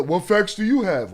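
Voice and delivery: a lightly put-on sneering viewer voice; mocking viewer quote. Streamer parroting a viewer to turn it back, light mock voice. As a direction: mimic the viewer's question with scorn. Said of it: "it's funny that".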